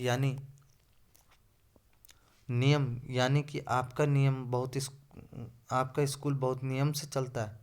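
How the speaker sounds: a loud rebuke to the headmaster. Acted. Rajni confronts the headmaster.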